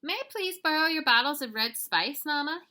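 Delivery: high, loud, lightly voiced little boy asking nicely; a touch of sweet-mannered pleading; polite asking. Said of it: "he asked politely".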